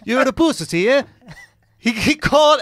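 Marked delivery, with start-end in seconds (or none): 0.0-1.0 mock Swedish accent, "pussy" in three syllables; imitated Swedish accent. Comic repeating the bouncer's insult, mock Swedish accent. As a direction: put on a Swede's lilt with a questioning "yeah?". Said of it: "Mad extra syllables in the word pussy".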